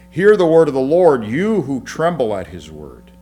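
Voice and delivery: loud, high ringing proclamation; proclaiming scripture. Acted. Preacher proclaiming God's word to the congregation, loud. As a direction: call it out like a prophet.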